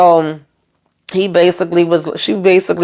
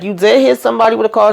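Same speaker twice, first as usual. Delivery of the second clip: shocked question; 5 semitones higher, faster than usual. Retold or imitated. Boyfriend shocked by news.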